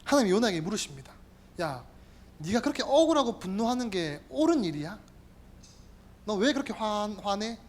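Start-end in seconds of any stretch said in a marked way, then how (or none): 1.6-7.6 quiet, lower probing questions; God questioning. Acted. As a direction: gently press him with each why. God questions Jonah, voiced. (낮고 조용하게 묻는 하나님)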